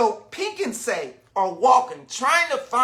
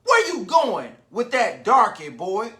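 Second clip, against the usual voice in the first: yelled. Acted. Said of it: "one yelled at me".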